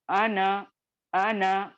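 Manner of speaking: अन said as a clipped an with no long a after the n; short an sound. Shown as a demonstration. Teacher shows students how to read the word without the alif. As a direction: read अन as a short an, not अना. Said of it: "सिर्फ नून का मुतहर्रिक होना".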